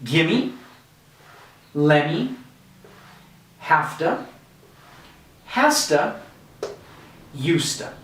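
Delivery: gimme, lemme, hafta, hasta, usta, each slowly and clearly; blended drill. Shown as a demonstration. Teacher leads a repeat-after-me drill. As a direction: model each blended word with a pause after it. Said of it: "let's just practice one more time".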